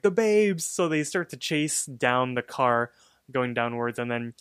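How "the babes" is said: high mock cry from a cartoon character; Manslaughter. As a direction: exclaim it high, in imitation. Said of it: "Manslaughter is like".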